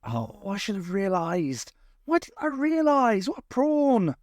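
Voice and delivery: high-pitched exasperation at himself; hammed-up "silly me" outburst; theatrical self-reproach. A narrator's reading. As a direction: build from slow dawning to a high cry. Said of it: "slapped himself theatrically on the forehead".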